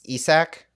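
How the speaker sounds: "Isak" said EE-sak; "Isak" as the announcers say it, EE-sak; announcers' pronunciation. Shown as a demonstration. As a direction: say "Isak" with a long ee and an s sound. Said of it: "from what the announcers on some random site".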